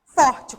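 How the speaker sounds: "forte" punched out loud; strong sound. Shown as a demonstration. Teacher explaining what tônico means, loud and emphatic. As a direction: hit "forte" hard, on its own. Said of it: "com som forte".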